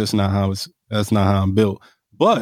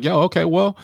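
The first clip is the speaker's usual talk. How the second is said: high, slow, casual AAVE swagger; African American accent; 4 semitones higher than usual. Retold or imitated. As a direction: switch into a street-style African American voice. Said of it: "code switch is really just knowing your audience".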